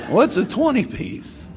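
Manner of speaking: high-pitched puzzled question; baffled question. Retold or imitated. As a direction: ask it high, as if totally clueless. Baffled by brother's slang.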